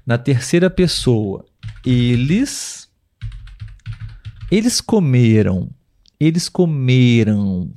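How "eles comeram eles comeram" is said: COMERAM with a long stressed ME, nasal unstressed ending. Shown as a demonstration. Teacher modelling the past tense for learners, middle-syllable stress. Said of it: "No passado".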